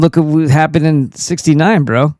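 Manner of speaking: loud. Real, not acted. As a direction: call him out loudly. Mocking the moon landing critic.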